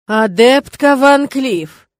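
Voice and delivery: very slow, loud stern warning. Acted. Rector cornering the student against the wall, slow loud warning. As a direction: draw the name out as a warning.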